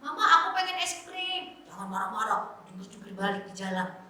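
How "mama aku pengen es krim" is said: put-on child asking mother nicely; higher-pitched polite little request. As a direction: model a well-behaved child's plea. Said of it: "ngomong aja dengan baik-baik".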